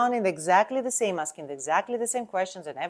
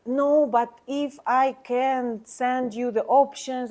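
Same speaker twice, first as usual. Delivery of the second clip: pushy pushback; 4 semitones higher, 4 dB louder, slower than usual. Shown as a demonstration. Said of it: "instead of".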